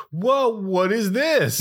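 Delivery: slow, drawn-out fake wonder with a laugh; mock amazement. Listener mocking a man who knows the story, feigned amazement. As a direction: stretch it out as hammed-up surprise. Mocks character surprised by events.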